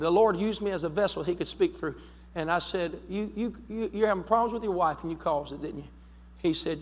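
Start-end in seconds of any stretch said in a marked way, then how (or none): 3.1-5.9 softer, stammering the words out; hesitant retelling. Retold or imitated. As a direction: stumble into it quietly, as if unsure. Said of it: "But there was a boldness".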